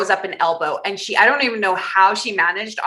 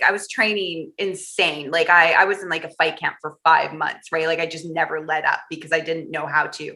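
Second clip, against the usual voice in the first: usual speaking voice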